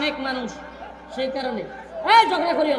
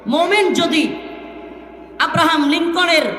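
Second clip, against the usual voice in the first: fiery preaching. Real, not acted. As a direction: drive each phrase home to the crowd. Preaching at full force.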